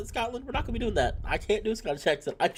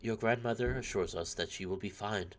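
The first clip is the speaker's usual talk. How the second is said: measured, formal letter reading; understated, even recital of bad news; letter read aloud; 8 semitones lower, 5 dB quieter than usual. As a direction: read a solemn family letter with mild gravity.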